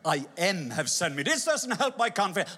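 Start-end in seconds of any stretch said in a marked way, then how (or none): 0.0-1.2 puzzled repeat, a touch lower; mock Moses. Moses mocking God's grammar, puzzled. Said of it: "that's not even very good grammar".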